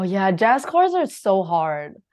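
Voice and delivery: ordinary talk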